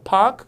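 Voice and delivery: "park" with a long vowel and no R. Shown as a demonstration. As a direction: stretch the a in "park", dropping the r. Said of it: "길어져". ('park'의 R을 빼고 길게)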